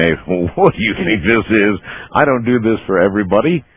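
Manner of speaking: lightly voiced sassy dog, laughing; voicing the dog. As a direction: do the dog talking back. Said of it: "Stogie saying".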